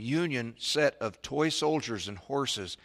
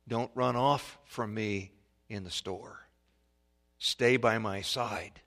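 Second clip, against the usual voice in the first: measured admonition; 3 semitones lower, slower than usual. Acted. Voices parent teaching a lesson.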